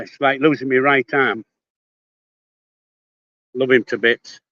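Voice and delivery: a little winded while walking; out of breath. Real, not acted. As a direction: talk between breaths. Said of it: "getting a bit out of breath now".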